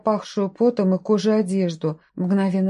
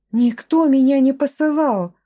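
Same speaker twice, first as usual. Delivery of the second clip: each word struck apart, high and louder; every word clipped; 6 semitones higher, 5 dB louder than usual. A narrator's reading. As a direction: spell out each word firmly. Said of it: "чеканя каждое слово". (чеканя каждое слово, громче)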